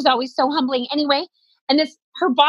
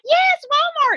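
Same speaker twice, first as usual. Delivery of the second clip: relieved yes; 14 semitones higher, 4 dB louder, slower than usual. Retold or imitated. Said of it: "They're like".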